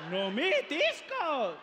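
slow, strained painful groan; pained groan. Retold or imitated. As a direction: groan like your back gave out. Pained groan after birth.

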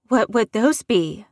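loud demanding question. Acted. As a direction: demand an answer, sharply. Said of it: "Wanda demanded".

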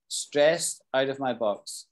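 slow, clear stressed out of my box, leaning on stressed; slow model phrase. Shown as a demonstration. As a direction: spell it out slowly for learners. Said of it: "Stressed out of my box means".

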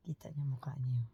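hushed, breathy aside; whisper. Real, not acted. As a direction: whisper it so the little one won't hear. Adult quietly comments on child.

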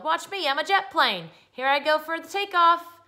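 put-on high, loud boyish boast; excited yell. Boy shows his mom his jet plane game, excited yell. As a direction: announce the stunt at full voice. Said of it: "he yelled".

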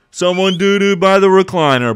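loud disgusted squeal; shocked high yell. Real, not acted. Streamer to chat about poop by the recliner, shocked high yell. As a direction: shriek it high and loud, half laughing in disgust.

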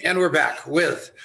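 lisping through a retainer; missing front teeth. Real, not acted. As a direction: speak around a gap in the teeth. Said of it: "do we have to talk about my tooth impediment?".

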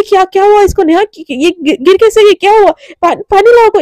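rushing, frightened calls for water; panicked. Retold or imitated. Devika panics when Radhika collapses, calling out frantically.

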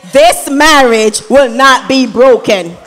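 shouted proclamation. Real, not acted. Sister leading wedding guests, shouting the vow high and loud. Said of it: "I want everybody to say it with me".

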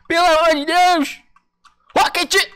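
drawn-out exasperated plea. Real, not acted.

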